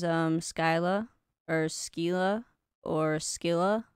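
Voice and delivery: Skyla, Skila, Skilla said slowly, testing each; unsure pronunciation. Shown as a demonstration. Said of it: "or something".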